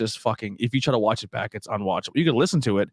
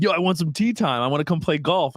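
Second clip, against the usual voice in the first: lightly imitated caller, pitched up; a hint of an impression, higher voice; Tracy Morgan; 5 semitones higher than usual. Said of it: "Tracy Morgan has a very distinct voice".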